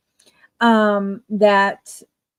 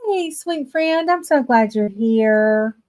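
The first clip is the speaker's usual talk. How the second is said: sweet greeting. Real, not acted. Greeting viewers on live stream.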